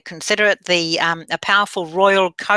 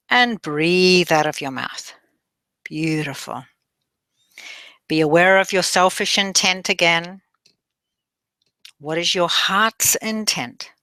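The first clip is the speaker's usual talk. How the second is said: measured meditation guide with long pauses; guided meditation. Acted. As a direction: guide them gently through breathing and affirmations.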